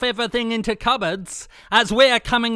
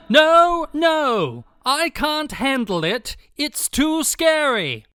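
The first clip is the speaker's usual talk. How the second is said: high, frightened whimper; scared; 4 semitones higher than usual. Acted. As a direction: panicky and shaken. Frightened viewer of a scary film.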